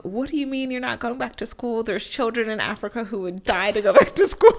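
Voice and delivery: hammed-up mom lecture about children in Africa; mom freaking out. Daughter imitating her mom's breakdown over dropping out, mock panic. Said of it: "she's freaking out and she's like".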